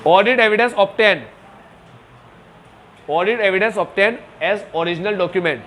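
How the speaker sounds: very slow, word by word; slow dictation. Shown as a demonstration. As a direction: dictate it slowly for notes. Teacher dictating slowly. (धीरे-धीरे लिखवाना)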